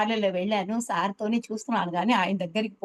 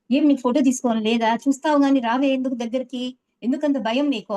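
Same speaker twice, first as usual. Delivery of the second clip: louder, a bit higher teasing reproach; mock scolding; 4 semitones higher, 4 dB louder than usual. Teacher teasingly scolding a shy student to come closer. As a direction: chide her fondly for hanging back.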